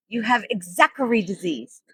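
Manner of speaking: lightly voiced Asian doctor accent; hint of a caricatured Asian accent; mock Asian accent. Doctor gives the patient her diagnosis, mock Asian accent. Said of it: "little Asian man, you know".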